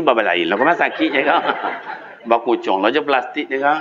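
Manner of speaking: ordinary delivery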